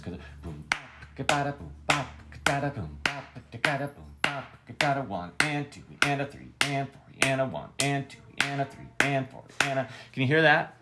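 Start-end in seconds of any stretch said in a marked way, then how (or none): 0.4-8.7 drum sounds then counting. Shown as a demonstration. Teacher copying a drummer for students, vocal beat. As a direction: mimic the drummer's hits, then count the beats. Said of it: "the drummer would be hitting in those locations".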